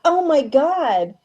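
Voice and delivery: steadying shaky voice. Real, not acted. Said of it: "I'm sorry I'm getting emotional".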